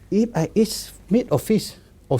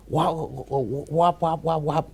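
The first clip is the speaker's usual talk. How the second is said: lightly voiced duck quacks; imitated duck cry; 3 dB quieter, much slower than usual. Retelling how the lady heard the duck cry, light duck imitation. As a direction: repeat short quacks, half imitating a duck. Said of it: "the voice of the duck".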